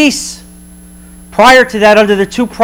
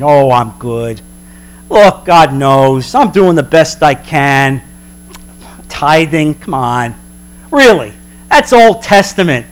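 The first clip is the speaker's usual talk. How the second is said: complacent churchgoer; 5 semitones lower than usual. Retold or imitated.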